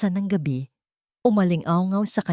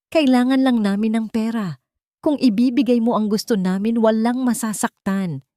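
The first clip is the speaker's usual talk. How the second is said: louder, higher, tense frightened demand; frightened plea; 6 semitones higher, 4 dB louder than usual. A narrator's reading. Laura holding Sofia at gunpoint, frightened and loud. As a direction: push through the fear to bargain. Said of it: "halatang takot".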